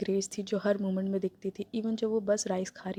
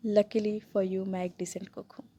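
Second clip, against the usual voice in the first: mock sympathy; slower than usual. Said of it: "mock sympathy में".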